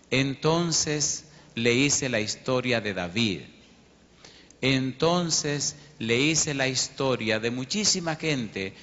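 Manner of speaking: each clause drawn out and stressed; slow sermon cadence. Acted. Pastor recounting his witness to the hitman, slow preaching cadence. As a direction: preach it, building slowly.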